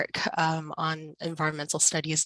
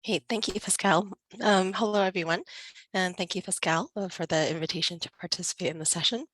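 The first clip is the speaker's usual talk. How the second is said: hoarse from a cold; raspy voice; 2 semitones higher than usual. Real, not acted. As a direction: speak with a raspy, sick voice. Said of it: "please excuse my raspy voice".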